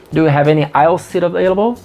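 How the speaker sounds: rushed question; fast, tongue-twisting question. Shown as a demonstration. Teacher rattles off the question fast to show it tangles the tongue. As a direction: rattle it off quickly. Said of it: "Enrola pra caramba a língua".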